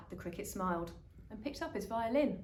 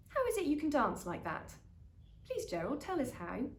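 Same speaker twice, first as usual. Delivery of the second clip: eager pleading; 7 semitones higher than usual. Acted. Animals eagerly begging Gerald.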